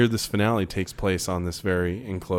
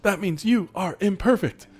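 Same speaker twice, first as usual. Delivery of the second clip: robotic V'ger voice; 8 semitones higher than usual. Retold or imitated. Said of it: "imitating V'ger computer".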